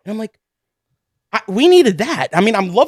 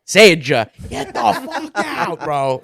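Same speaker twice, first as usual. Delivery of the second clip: laughing disbelief; slower than usual. Retold or imitated. Retold answer, laughing.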